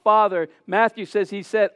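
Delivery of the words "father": loud single-word appeal; crying out. Retold or imitated. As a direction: call out to the Father. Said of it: "Luke says he cried out".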